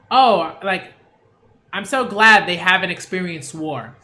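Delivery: imitating a relieved, happy way to say it; glad relieved reading. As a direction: say it like you're truly glad they were spared. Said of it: "But he didn't say it like that".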